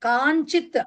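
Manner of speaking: కాంచిత్ with an n sound before చి; pronunciation demo. Shown as a demonstration. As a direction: model కాంచిత్ clearly as "kaan-chit". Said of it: "ఆ నికారం పలక".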